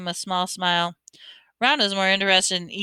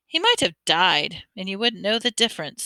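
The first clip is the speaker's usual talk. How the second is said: disgusted. Acted. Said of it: "said Ron in disgust".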